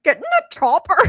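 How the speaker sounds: laughing, Minnesota-sounding Arnold; bad Arnold impression. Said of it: "is Arnold from Minnesota?".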